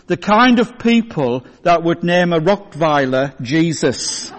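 punchline with real laughter breaking in; laughing through the punchline. Real, not acted. Preacher delivering the joke's punchline to the congregation, laughing. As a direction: let the laugh leak through the words.

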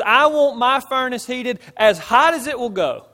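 loud, high-pitched royal order; kingly command. Retold or imitated. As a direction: order it forcefully, as a powerful king. Preacher acts out the enraged king's order.

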